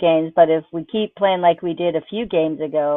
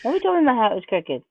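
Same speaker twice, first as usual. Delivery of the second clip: laughing complaint. Real, not acted. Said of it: "That's so bad".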